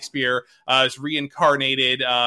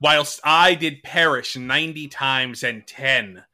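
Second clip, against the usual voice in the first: Shakespearean actor; slower than usual. Acted. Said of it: "I will read it again".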